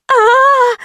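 high wailing shriek of panic; hysterical scream. A narrator's reading. Girl in the salon screaming, high hysterical wail. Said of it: "колотилась девица с башней".

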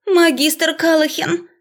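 high, slow plaintive plea; pitiful cry. A narrator's reading. Professor pleading with the magister, pitiful. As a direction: wail his name helplessly. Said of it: "звучал жалко".

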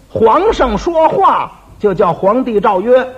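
slow, deliberate explanation of 皇帝诏曰; slow explaining. Shown as a demonstration. Explaining the edict phrase to the dim partner, slow and deliberate. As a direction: spell out 皇帝诏曰 slowly like a teacher. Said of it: "告诉你".

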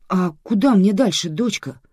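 a lost man seeking directions; worried. A narrator's reading. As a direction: ask with mild unease. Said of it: "обеспокоенно уточнил мужчина".

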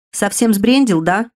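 outraged at the request; indignant. Acted. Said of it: "возмутился Скилл". (возмущённо, чуть громче)

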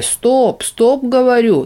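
high, loud yell to stop; shout. Acted. Demon yells at the fleeing old man. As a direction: yell him to a halt.

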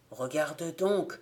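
slow, hushed and a little shaky with fear; barely daring to point him out; trembling voice. Acted. The gravedigger nudges the narrator at mass, slow and trembling. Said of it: "d'une voix qui tremblait".

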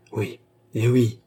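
slow sighed yes; sighing. Acted. The queen sighing her answer to the departing jewellers. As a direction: let it out on a weary sigh. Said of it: "soupira la reine".

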